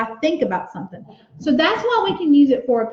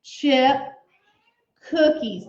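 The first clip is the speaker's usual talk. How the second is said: slow dictation; slower than usual. Shown as a demonstration. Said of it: "So just stay on that page".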